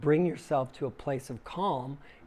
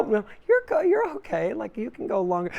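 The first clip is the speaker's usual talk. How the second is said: soothing inner voice; 8 semitones higher, 6 dB louder than usual. Pretend. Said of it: "your other part goes".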